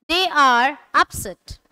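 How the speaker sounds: slow, careful teacher reading; slow model phrase. Shown as a demonstration. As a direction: say it slowly for students to repeat. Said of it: "repeat after me with the correct pronunciation". (धीमे, स्पष्ट उच्चारण में)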